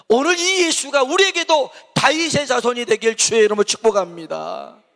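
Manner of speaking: fiery Korean pulpit blessing; fervent preaching. Real, not acted. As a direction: bless them with full force. Preaching blessing at full force.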